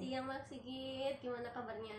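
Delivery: muffled behind a mask; speaking through a face mask. Real, not acted. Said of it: "pakai masker". (bicara di balik masker)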